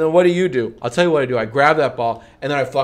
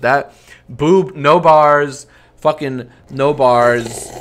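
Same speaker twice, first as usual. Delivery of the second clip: loud heckling; 6 dB louder, much slower than usual. Real, not acted. Heckling the rap.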